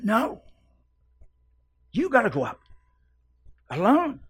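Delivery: preacher voicing God in full cry; God's command. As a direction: thunder it out as God calling from the mountain. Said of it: "God said".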